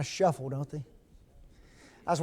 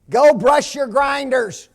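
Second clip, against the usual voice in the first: put-on parent to child; 6 semitones higher, 7 dB louder, slower than usual. Parent telling child to brush teeth.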